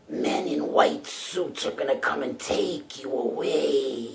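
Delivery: slow, eerie imitated demon; drawn-out demonic growl of a mother. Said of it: "she actually said this to me in a demon voice".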